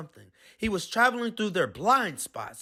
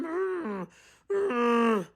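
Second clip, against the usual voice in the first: groaning; 4 semitones higher than usual. A narrator's reading. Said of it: "Dash kept groaning".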